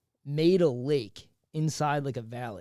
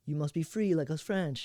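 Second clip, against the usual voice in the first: light put-on French accent; mock French accent, lightly done; French propagandist. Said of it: "This French guy goes down".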